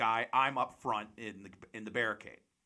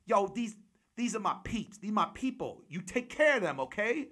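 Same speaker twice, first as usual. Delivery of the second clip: high-pitched impression of a hype man; put-on high voice, punchy and insistent; 7 semitones higher, 3 dB louder than usual. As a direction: give orders in an excitable high voice. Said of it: "and he goes".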